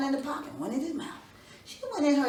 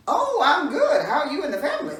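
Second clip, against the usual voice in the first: laughing greeting; 4 semitones higher, 9 dB louder than usual. Acted. Cheerful greeting in told story.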